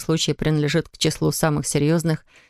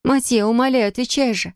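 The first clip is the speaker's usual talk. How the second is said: higher, urgent begging woman's voice; insistent plea; 7 semitones higher than usual. A narrator's reading. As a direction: plead with him to answer. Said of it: "настаивала она". (высокая настойчивая мольба)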